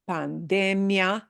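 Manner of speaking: pandemia as pan-DE-mia; stress on DE. Shown as a demonstration. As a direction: lean on "de" in pandemia. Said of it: "punch the de".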